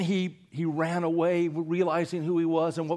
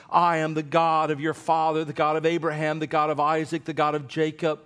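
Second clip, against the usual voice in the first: voice of God; 6 dB louder than usual. Acted. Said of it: "God speaks to him".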